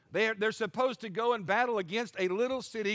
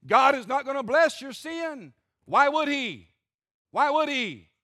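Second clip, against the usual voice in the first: emphatic preaching; 4 semitones higher, 6 dB louder than usual. Real, not acted.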